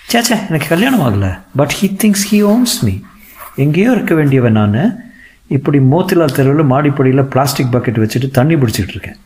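a hint of an indignant young actress; aggrieved actress. Narrator voices Archana complaining.

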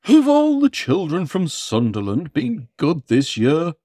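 big booming Father Christmas; booming Santa voice. Acted. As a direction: boom it out like Santa. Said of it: "boomed Santa".

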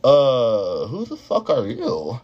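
drawn-out, incredulous challenge; mock disbelief, dragged out. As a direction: retell it slowly, taken aback. Acted reaction to bossy coworker.

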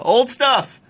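mock yell. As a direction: shout it like a fan in the crowd. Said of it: "Just yell".

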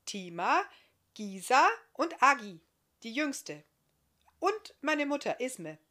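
put-on a keen little boy begging for a tale; excited child Marti. Marti urging the old bearded giant, high and eager. Marti lists his family.

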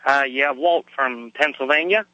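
a little hoarse from a cold; hoarse, getting over a cold. Real, not acted. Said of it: "if I sound a little hoarse to you".

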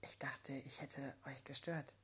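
shy, breathless whisper; embarrassed whisper. A narrator's reading. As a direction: whisper it, blushing. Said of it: "wird erneut rot". (Jenny flüstert verlegen, weil sie rot wird)

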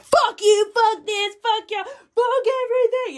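high, loud furious swearing; angry outburst. Retold or imitated. Mother retelling her ego's raging reaction to the trip. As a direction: let the hurt ego explode in rage.

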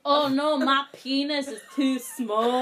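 mock lament, drawn out; mock male woe. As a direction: whine it in mock despair. Acted whine of men's issues.

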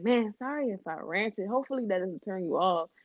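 lightly imitated DMV accent. Imitating her date apologising for ranting, light DMV accent. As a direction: retell his apology with a hint of DMV accent. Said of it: "I always do this D M V accent".

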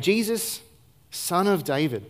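half-voiced beggar's cry across a crowd; retold cry out. Preacher voicing blind Bartimaeus calling to Jesus, mock cry. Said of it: "Bartimaeus begins to cry out".

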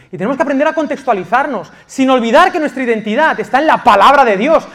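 loud, high-pitched preaching at full force; fiery preaching. Acted. Pastor urging the church to loyalty, fiery preaching. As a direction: drive each point home to the congregation.

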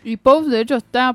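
talking through a mouthful; chewing while speaking; mouth full. Real, not acted. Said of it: "me estoy comiendo un alfajor".

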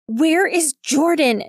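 high, slow, forceful demand; high-pitched frantic questioning; screamed demand. Acted. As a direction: cry it out, stretching each word. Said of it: "Nick screamed at Belly".

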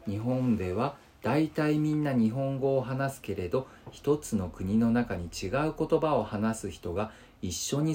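measured picture-book reading, phrase by phrase; even reading with pauses between phrases; children's textbook read-aloud. Acted. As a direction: read it out simply for first graders. Reads schoolbook text aloud.

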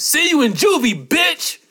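high, loud parting taunt; retelling the kid leaving class; imitated yell. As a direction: yell it over the shoulder on the way out. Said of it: "He says".

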